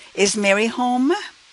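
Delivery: pitch rising at the end. Speaker demonstrates a yes-no question for learners, with rising yes-no question intonation. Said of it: "you notice the rising intonation when I say it".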